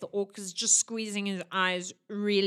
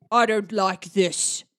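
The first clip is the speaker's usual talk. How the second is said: dopey cartoon bellow; 7 dB louder, slower than usual. Orc voiced in the scene.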